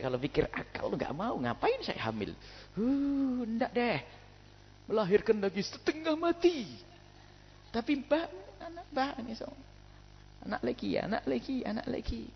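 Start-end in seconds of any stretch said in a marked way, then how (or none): 2.7-6.7 high, whining complaint of a weary wife; whiny tired wife. 7.7-9.5 high, soft coaxing voice; mock tender plea. 10.4-12.3 high, soft repeated yearning; mock longing.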